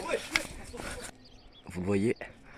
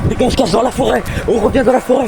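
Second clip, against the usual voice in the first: calling out loud; 13 semitones higher, 10 dB louder than usual. Real, not acted. Calling team across map.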